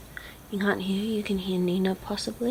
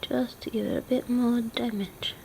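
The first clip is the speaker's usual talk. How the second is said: whisper; 3 semitones higher, 10 dB quieter than usual. Real, not acted. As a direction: breathe it out softly while drawing. Whispered drawing commentary.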